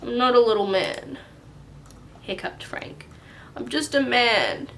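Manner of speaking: put-on a touch of a grumpy boy; sulky, cross little boy; angry grumpy Frank. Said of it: "Angry, grumpy Frank voice".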